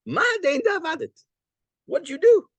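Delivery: high startled cry of what did you do; shocked question. Retold or imitated. Startled judge cries out high. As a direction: judge jolted by candles on his head. Judge reacts to broken candles.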